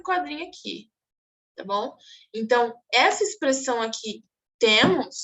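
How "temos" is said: sceptical query with a pitch swoop; ironic. Acted. Teacher points students to the boy's expression, ironic. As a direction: say it as a doubting retort. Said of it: "é uma expressão de ironia".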